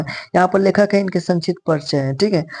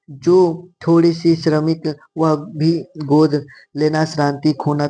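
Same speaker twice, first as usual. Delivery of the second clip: slow, drawn-out poem recitation; verse read aloud; slower than usual. Acted. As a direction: read the verse slowly, stretching each phrase. Reads verse passage aloud.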